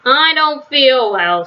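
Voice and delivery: slow, whiny fake-sick moan; faked moaning. DW faking illness to Grandma, slow moaning whine. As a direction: drag it out like you're pretending to be ill. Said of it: "made loud moaning sounds".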